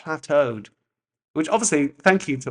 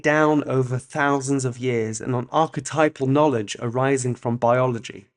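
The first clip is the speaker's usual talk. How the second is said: essay reading; 4 dB louder than usual. Real, not acted. Reads essay aloud.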